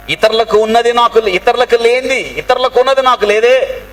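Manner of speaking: high-pitched, insistent lament; acted distressed complaint. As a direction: imitate someone bemoaning what they lack. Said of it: "అని ఎన్నిసార్లు బాధపడ్డావు".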